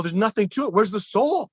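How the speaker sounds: teasing scorn. Retold or imitated. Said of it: "I go".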